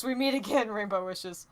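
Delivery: a hint of a cartoon villain greeting a rival, slowed down; understated mock villain line; cliche villain. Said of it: "Cliche villain voice".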